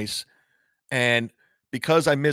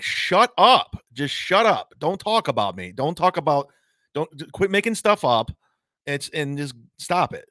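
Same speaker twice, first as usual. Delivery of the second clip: retold angry outburst. Host recalls snapping at a critic online, in mock anger. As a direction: re-enact telling her to shut up. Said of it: "Yeah, I was just pissed".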